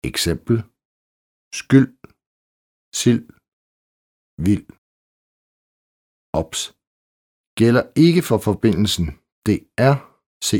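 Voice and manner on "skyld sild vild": skyld, sild, vild ending on the l sound; silent D. Shown as a demonstration. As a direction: leave the final D unsaid in "skyld", "sild", "vild". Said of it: "L D". (stumt D i skyld, sild og vild)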